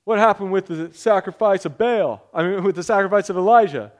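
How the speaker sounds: called out loud across the room; yelling out. Retold or imitated. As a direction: shout it after the speaker. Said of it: "somebody yells out".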